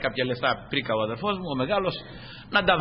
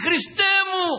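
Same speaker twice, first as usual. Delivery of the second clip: crying out; 12 semitones higher, much slower than usual. Retold or imitated. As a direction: call out to Christ, overcome. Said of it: "άρχισε να κλαίει". (φωνή ικεσίας με κλάμα)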